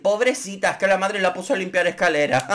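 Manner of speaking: mock pity. Mocking excuse for Joan Crawford.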